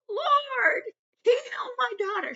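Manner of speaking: high, loud pleading cry to the Lord; desperate yell. Retold or imitated. Canaanite woman yelling to Jesus for her daughter, desperate yell. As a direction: cry out for your daughter's healing. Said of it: "She was yelling".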